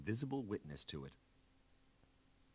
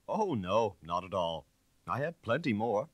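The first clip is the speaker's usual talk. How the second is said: louder and higher, relishing the proof; the inspector gloating over his suspect, louder; triumphant inspector; 5 semitones higher, 8 dB louder than usual. Acted. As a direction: pile on the evidence with a touch of glee.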